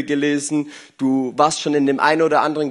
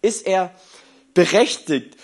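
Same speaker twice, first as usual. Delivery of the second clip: gentle question; 2 semitones higher than usual. Retold or imitated. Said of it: "Und Gott fragt ihn".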